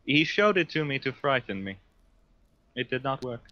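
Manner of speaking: lightly voiced, measured psyker; psyker character. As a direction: play a formal psyker answering an interrogator. Psyker reports the vision.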